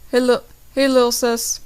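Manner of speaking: loud friendly shout; yelling. Acted. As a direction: call out across the yard. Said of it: "yells the other".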